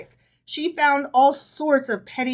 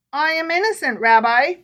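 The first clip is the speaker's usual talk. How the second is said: pleading; 5 semitones higher, 4 dB louder than usual. A narrator's reading. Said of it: "pleaded Herschel".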